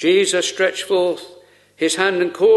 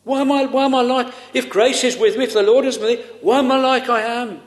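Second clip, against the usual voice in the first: plaintive questioning, pitched higher; mild crying out; 4 semitones higher than usual. Retold or imitated. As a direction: cry out Rebecca's question, lightly acted. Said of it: "if you cry out with Rebecca".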